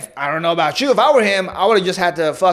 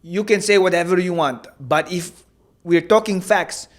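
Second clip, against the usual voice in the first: shaky attempt at a Dagestani accent; lightly put-on Dagestani accent, not very convincing. Podcaster trying the fighter's words for his co-host, amateurish Dagestani accent. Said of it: "I can't do a dag-, I can't do accents".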